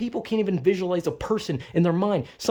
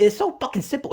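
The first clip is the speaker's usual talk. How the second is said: higher, sing-song mock of "simple"; 7 semitones higher, faster than usual. Parodying family, saying it up high in mockery. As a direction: sneer it up high like they do. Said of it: "I'm getting very fucking heated".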